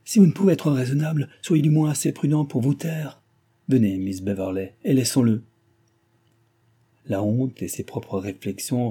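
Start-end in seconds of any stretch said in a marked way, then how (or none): 0.0-5.4 a higher, commanding rebuke; haughty anger. Acted. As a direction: silence him and sweep out. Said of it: "avec hauteur et colère".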